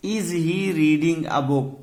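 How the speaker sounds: very slow, each word spaced out; slow dictation. Shown as a demonstration. Teacher reading the example to students, very slow and deliberate. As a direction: spell it out slowly for the class. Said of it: "क्या वो पुस्तक पढ़ रहा है?".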